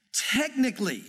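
"Technically" set apart, pitched a little up; "Technically" said as the key word; stress on Technically. Real, not acted. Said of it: "I'm focusing on that word".

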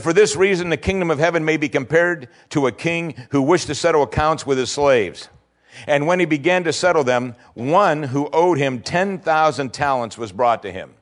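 lifted, measured reading of the parable; scripture reading. Acted. Preacher reading the parable to the congregation, lifted and measured. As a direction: read the king's story out with weight.

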